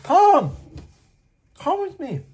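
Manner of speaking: very high, loud beckoning voice; very high mock call of the stranger; beckoning man. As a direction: coax him along in a high squeal. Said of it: "he's like".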